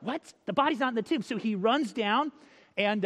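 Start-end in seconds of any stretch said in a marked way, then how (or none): 0.0-1.2 mildly incredulous echo of news; lightly played startled reaction; startled Peter. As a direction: repeat it back in acted disbelief. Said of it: "And Peter's like".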